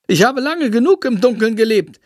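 high, grand little bat declaring himself; vain bat voice. Acted. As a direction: proclaim it like a vain little creature.

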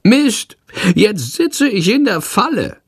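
the bat swears at the stuck window; bat cursing. Acted. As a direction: curse like a trapped little bat. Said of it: "flucht er".

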